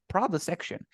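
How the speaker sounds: produce said PROD-uce in "Produce section"; stress on first syllable. Shown as a demonstration. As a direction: hit the start of Produce. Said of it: "the stress goes first here at the beginning".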